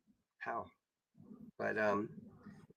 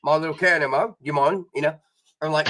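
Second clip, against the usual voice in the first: mock Australian accent. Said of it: "I would act like I'm Australian".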